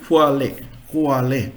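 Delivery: "quale" said in two syllables, ending in -eh; German pronunciation. Shown as a demonstration. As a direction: sound out "quale" as a German example word. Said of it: "So German word".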